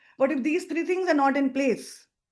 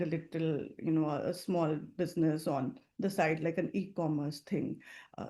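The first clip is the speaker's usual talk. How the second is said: low-energy hesitant call; 3 semitones lower than usual. Shown as a demonstration. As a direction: sound unsure and apologetic about the business. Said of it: "if I do my info call like this".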